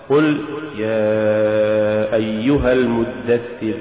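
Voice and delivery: يا أيها المدثر chanted slowly, kasra kept short; careful chant; correct recitation. Shown as a demonstration. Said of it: "مثال الكسرة".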